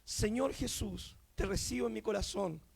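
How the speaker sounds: quiet, measured sinner's prayer; leading a prayer. Retold or imitated. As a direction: lead a convert gently, softly and low. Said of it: "repite esta oración conmigo".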